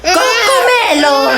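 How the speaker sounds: high, slow sing-song cry; excited coaxing. Acted. Sitter offering the cartoon to a crying toddler, high slow excited call. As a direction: stretch the word high to distract the baby.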